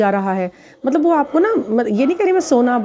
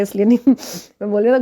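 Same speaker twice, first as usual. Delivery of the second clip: laughing while talking; much faster than usual. Real, not acted. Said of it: "मुझे हंसी आ रही है बोलते हुए".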